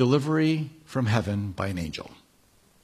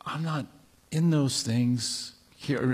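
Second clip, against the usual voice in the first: quiet; 6 dB quieter, slower than usual. Acted. God's voice, softly.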